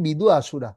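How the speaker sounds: বিদু আসুরা as two clear words; pronunciation demo. Shown as a demonstration. Teacher answering how to pronounce it, বিদু আসুরা said distinctly. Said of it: "উচ্চারণ হবে কি?".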